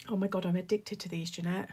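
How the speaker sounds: talking while crunching crisps; crunching chips. Real, not acted. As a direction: mouth full of crunchy snack. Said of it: "Sorry for the crunching".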